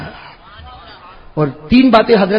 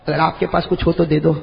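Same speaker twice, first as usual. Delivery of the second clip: quiet plea; 5 semitones lower, 5 dB quieter than usual. Acted. Hungry companion pleading.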